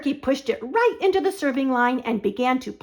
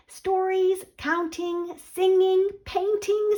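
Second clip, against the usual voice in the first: excited; 7 semitones higher than usual. Acted. Turkey excitedly lists school things.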